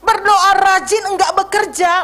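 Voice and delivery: fiery sermon delivery; forceful preaching. Acted. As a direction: preach it hard to the congregation.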